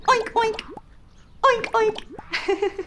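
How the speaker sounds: high-pitched piggy oinking; squeaky, playful double oinks. Pretend. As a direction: oink like a little pig. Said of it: "Can you oink along with me?".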